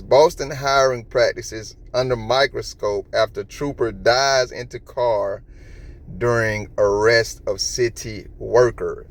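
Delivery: slow, deliberate reading of a title; headline read-out. Real, not acted. Vlogger reading a news headline to viewers, slow deliberate read-out. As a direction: read it out slowly, spacing the words.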